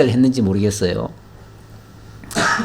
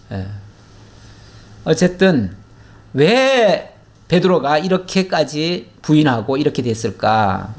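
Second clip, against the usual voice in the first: ordinary talk, nothing marked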